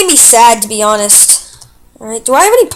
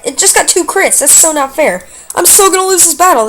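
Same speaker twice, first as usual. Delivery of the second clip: frustrated panic; 5 semitones higher than usual. Real, not acted. Losing battle to crits.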